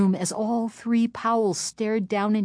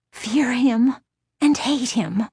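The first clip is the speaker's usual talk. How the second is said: raised, strange, intense voice; eerie inner voice; 7 semitones higher, 4 dB louder, slower than usual. A narrator's reading. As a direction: spit it out with dread. Inner resolve against dummy.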